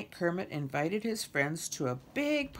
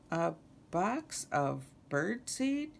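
incredulous echo; 3 semitones higher, slower than usual. Acted. Kermit echoes Lulu in disbelief.

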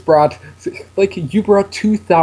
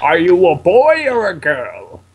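slow, deliberate professor's question; lightly acted professor voice; Professor Oak. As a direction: ask it slowly like an old mentor. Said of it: "You can see why I chose Professor Oak's voice".

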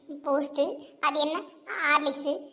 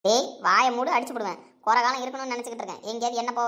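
angry scolding; 3 semitones lower than usual. Acted. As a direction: scold him like a fed-up grandmother. Grandmother scolds grandson.

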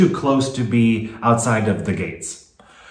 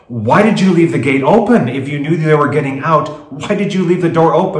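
mildly raised, indignant retold yell; louder mock scolding; 4 semitones higher, 4 dB louder than usual. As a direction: re-enact an angry demand, only half yelled. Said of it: "Patrick started yelling at him".

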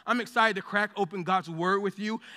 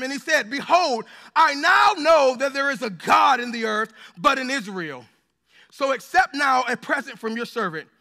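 measured, raised voice reading the Bible passage; scripture reading; 4 dB louder than usual. Acted. Pastor reading Second Kings to the congregation, solemn and raised. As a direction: read it out like holy text to the church.

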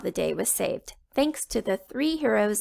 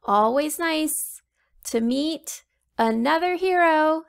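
heroic princess voice; 6 semitones higher, 3 dB louder than usual. Acted. Heroine greets new hero.

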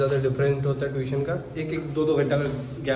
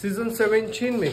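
drawn-out, higher-pitched proclamation; mock announcement; 5 semitones higher, slower than usual. Vlogger boasting to friends about Bigg Boss, mock announcement. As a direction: announce it slowly, higher, like big news.

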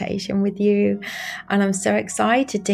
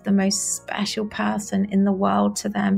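guided meditation. Acted. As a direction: guide the listener gently into feeling loved. Leads a guided love meditation.

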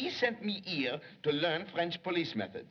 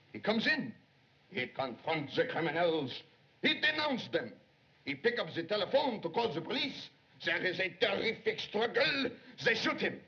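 raised, pitched-up storytelling; dramatic reenactment; 3 semitones higher than usual. Acted. Secretary acting out the murder for Chan, dramatic. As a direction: act out the crime as it happens.

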